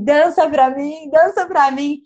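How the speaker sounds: slow, drawn-out chant to the sky; slow calling to the aurora. Retold or imitated. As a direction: coax the northern lights to dance, slowly. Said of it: "eu falei assim".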